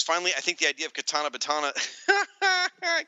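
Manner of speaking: quick read breaking into laughter; cracking up. Real, not acted. Podcast host reading a listener comment, cracking up. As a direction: rush the line and lose it laughing. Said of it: "can't ever say it without laughing".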